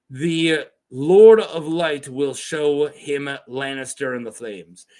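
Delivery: slow, heavy, drawn-out delivery; lightly voiced gruff outlaw; slow dramatic Greenbeard. Shown as a demonstration. Reading out Greenbeard's warning, slow and heavy. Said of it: "I guess I didn't do that the way that".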